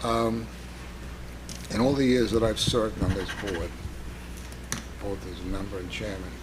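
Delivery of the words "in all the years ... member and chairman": hoarse, barely audible rasp; losing voice, half whispered; raspy whisper. Real, not acted. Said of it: "Sir, could you speak up a little?".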